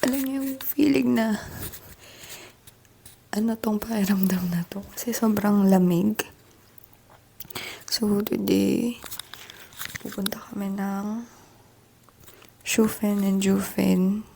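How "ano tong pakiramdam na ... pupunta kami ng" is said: soft unvoiced whisper. Real, not acted. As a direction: whisper so no one wakes. Early morning hotel room whisper.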